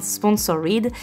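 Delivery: English shade name in a French accent. Real, not acted. Vlogger naming an eyeshadow shade to viewers, French-accented English. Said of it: "avec mon magnifique accent comme toujours".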